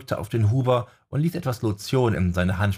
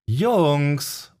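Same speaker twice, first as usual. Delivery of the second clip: irritated, louder call to cut them off; annoyed; 6 semitones higher, 4 dB louder than usual. A narrator's reading. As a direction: snap for their attention. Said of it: "unterbrach Jessica die beiden genervt".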